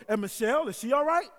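high, loud imitated old lady. Old neighbor asking after the pastor's wife, old lady voice. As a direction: inquire like a nosy old neighbor. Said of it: "so it's my old lady voice".

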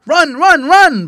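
high, loud, rapid-fire barks; barking dog. A narrator's reading. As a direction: bark each word like an excited dog. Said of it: "barked Brownie".

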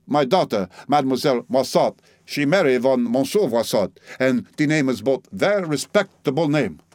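a proud old Frenchwoman mocking him in her broken English; French-accented old lady. Old Frenchwoman mocking the narrator, French accent.

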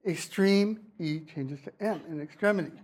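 "Extreme" with ee turning to eh in "extremity"; name the vowels ee and eh between "Extreme" and "extremity"; vowel change demo. Shown as a demonstration. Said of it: "Same for all of these".

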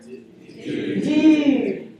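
Dude. with the oo pushed far forward; surfer dude. Shown as a demonstration. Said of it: "say it like you're a surfer".

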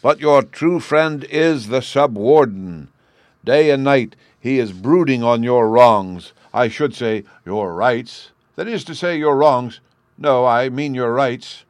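loud, slow, high public speech; yelled oratory. A narrator's reading. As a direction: declaim at full volume to a crowd. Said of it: "yelled the Chancellor".

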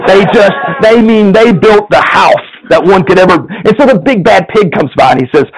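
lively storyteller reading a fable to the congregation; story narration. A narrator's reading. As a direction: tell it like a bedtime tale, playful. Pastor reads a story aloud.

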